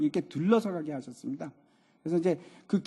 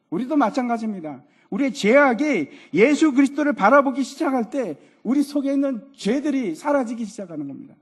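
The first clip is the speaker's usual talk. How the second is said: raised, high pulpit voice; emphatic sermon delivery, voice lifted; forceful preaching; 6 semitones higher, 5 dB louder than usual. Real, not acted. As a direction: drive the message home to the congregation.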